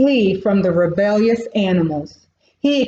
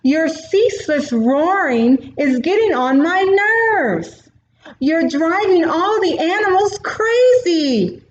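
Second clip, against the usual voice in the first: higher, irritated little warthog complaining; annoyed warthog; 7 semitones higher than usual. Acted. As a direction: scold the noisy king in a squeaky critter voice. Warthog scolds the lion.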